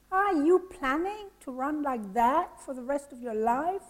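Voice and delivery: put-on lightly French-accented English; a hint of a French accent in English. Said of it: "said to me in a French-English accent".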